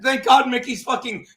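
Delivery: loud, drawn-out mock exclamation; hammed-up loud put-on relief; imitated outburst. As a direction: act out his reaction, big and stretched. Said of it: "'cause he's just trying to".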